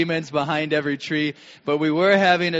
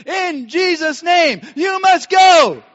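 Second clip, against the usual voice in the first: high, loud, slow commanding yell; rebuking shout; 14 semitones higher, 11 dB louder, slower than usual. Retold or imitated. Couple shouting back at the thieves, slow commanding yell. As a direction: command them out in Jesus' name at full voice. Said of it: "And we're shouting".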